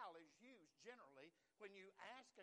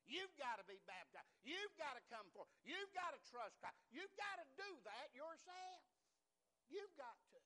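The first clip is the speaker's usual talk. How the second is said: louder and higher with each line; rising pulpit insistence; building preacher's call; 5 semitones higher, 4 dB louder than usual. Real, not acted. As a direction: drive the point home harder and harder. Preacher presses the congregation.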